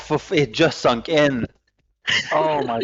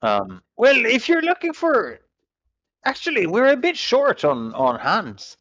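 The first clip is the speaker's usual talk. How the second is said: ship captain character; 4 semitones higher than usual. Acted. Captain character offering a job.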